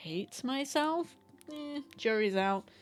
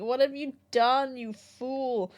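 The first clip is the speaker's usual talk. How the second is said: higher, louder mock scold; nose scolding her; 5 semitones higher, 7 dB louder, slower than usual. Sore nose scolding its owner, hammed-up indignant voice. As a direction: voice the nose as an indignant old master. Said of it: "And it's been like".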